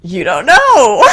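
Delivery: high growling voice. Acted. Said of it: "High growling".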